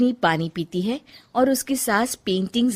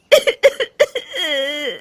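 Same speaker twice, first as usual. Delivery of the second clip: breaking into sobs; 6 semitones higher, 3 dB louder than usual. Acted. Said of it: "Rajni रोने लगती है।".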